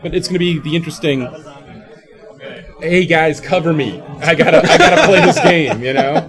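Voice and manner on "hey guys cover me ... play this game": excited gamer call. Retold or imitated. Voicing a player in game.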